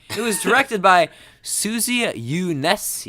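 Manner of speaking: breathy, laughing, right on the mic; close to the mic. Real, not acted. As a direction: lean in close and half-whisper. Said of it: "leaned pretty close into the microphone there".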